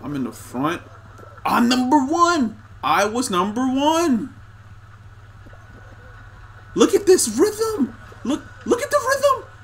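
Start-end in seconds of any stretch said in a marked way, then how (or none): 1.5-4.3 gloating. Real, not acted. Gloating in first place. 6.8-9.5 squeaky show-off boast; high bragging voice. Pretend.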